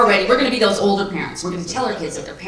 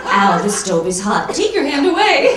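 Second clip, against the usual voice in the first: mock pained warning; 6 dB louder, slower than usual. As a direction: yelp a warning about a hot stove. Acts out pain warning in bit.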